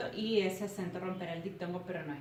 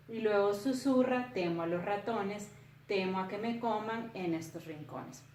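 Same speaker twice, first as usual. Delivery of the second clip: poem read aloud. A narrator's reading.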